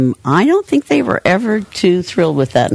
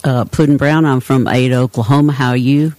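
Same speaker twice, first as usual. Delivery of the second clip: lightly put-on Oklahoma accent, pitched lower; old hometown accent; 3 semitones lower than usual. Shown as a demonstration. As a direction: demonstrate your old small-town Oklahoma accent. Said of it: "I used to talk like this".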